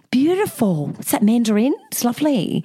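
a hint of a blissfully rude guest; lightly voiced gushing flatmate; chirpy flatmate. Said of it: "Like this".

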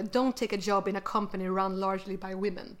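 Swedish-accented English read-out. Real, not acted. Co-host reads vintage career tip aloud, Swedish-accented English. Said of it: "my horrible English accent".

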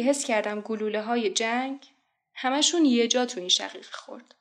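spoken-word war poem, measured phrases with pauses; dramatic verse recital; poetry recitation. Acted. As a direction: recite it line by line, surging on openings and falling away.

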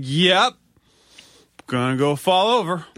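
put-on high, laughing drunk quip; giggling, tipsy boast. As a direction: laugh through a tipsy retort.

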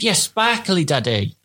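put-on high, condescending little-girl reply; posh little daughter. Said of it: "she literally is so patronising".

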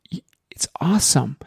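unvoiced whisper aside. Real, not acted. Coach whispering encouragement to a listener. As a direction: breathe it as a secret compliment.

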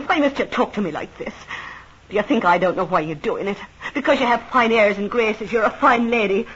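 jealous woman accusing the fine lady of stealing her man; jealous accusation. Acted.

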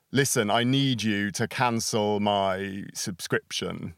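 slow, deliberate demand to cancel; firm phone demand. Retold or imitated. Caller on the phone to a company, slow firm demand. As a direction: spell it out slowly to the customer service agent. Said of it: "you call them up and you're like".

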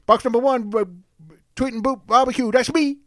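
hammed-up redneck pitmaster; Southern hick voice. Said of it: "Billy Bob in there".

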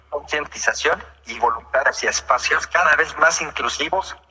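even computer text-to-speech voice; synthesized voice. Real, not acted. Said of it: "esta es una voz sintetizada".

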